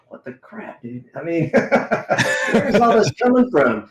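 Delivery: high, laughing disbelief; amused at his own tears, laughing. Retold or imitated. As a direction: laugh through the question. Baffled at his own emotion.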